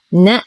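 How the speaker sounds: short نأ, quick na straight into the hamza; unstretched two letters. Shown as a demonstration. Teacher checks the last letters are not stretched, short syllables. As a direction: say نأ short, no lengthening. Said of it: "نأخذ آخر حرفين فنقول".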